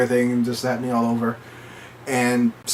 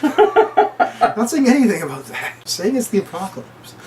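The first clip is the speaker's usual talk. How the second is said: exasperated; 10 semitones higher than usual. Retold or imitated. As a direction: correct him, fed up. Jay exasperated correcting.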